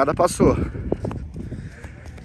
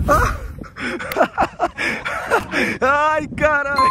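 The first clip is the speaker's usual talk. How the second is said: laughing; 6 semitones higher than usual. Real, not acted. Friend falls, laughing.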